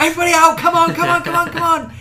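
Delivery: mock fire-drill bellow; Gareth panicking. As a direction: herd everyone out in a hammed-up panic. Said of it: "And he does this, like".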